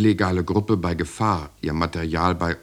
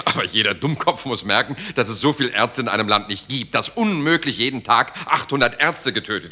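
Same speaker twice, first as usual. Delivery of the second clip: louder, higher, arguing hard; raised exasperated arguing; exasperated protest; 4 semitones higher, 4 dB louder than usual. Acted. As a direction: insist he is being unreasonable. Heated quarrel with boss.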